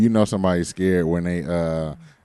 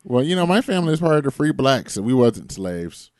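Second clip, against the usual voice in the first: mimicking Naomi; 5 semitones higher than usual. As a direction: show off about free ancestors. Imitating Naomi bragging.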